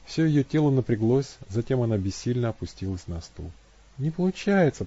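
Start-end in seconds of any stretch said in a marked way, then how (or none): 4.0-4.9 moaned. A narrator's reading. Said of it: "простонала она".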